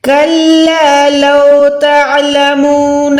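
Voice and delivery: slow, measured tajweed recitation; slow Quranic recitation. Shown as a demonstration. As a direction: chant it slowly with tajweed. Recites verses.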